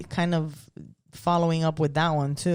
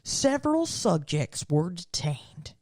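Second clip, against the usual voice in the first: put-on hillbilly accent. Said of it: "You suddenly sound like a hillbilly".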